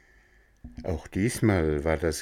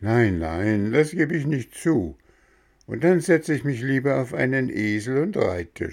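put-on protesting boy; 6 semitones higher than usual. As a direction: insist politely. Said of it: "sprach Bengele".

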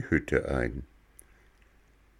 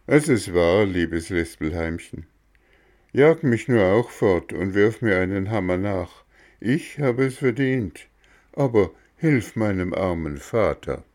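lightly voiced, pleading wooden boy; remorseful boy; 4 dB louder than usual. Bengele apologises to the cricket, pleading boy voice. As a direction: beg for your father's sake.

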